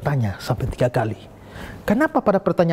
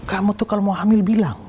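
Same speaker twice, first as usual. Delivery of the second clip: a touch higher, mock-stern complaint; retold angry scolding; 5 semitones higher than usual. Retelling the scolding of his pregnant girlfriend, mildly angry. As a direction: scold her lightly, as if retelling the anger. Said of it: "Saya marah itu loh".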